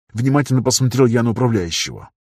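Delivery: ordinary delivery, nothing marked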